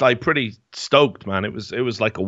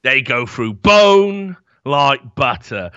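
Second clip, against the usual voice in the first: Bricktop quote; 2 semitones higher, 3 dB louder, much slower than usual. Retold or imitated. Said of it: "And he goes".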